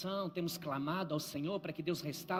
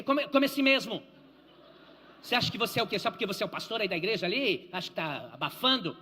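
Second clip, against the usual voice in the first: rude waiter; 6 dB louder, faster than usual. Retold or imitated. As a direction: bark it like a contemptuous waiter. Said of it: "Porque ele dizia".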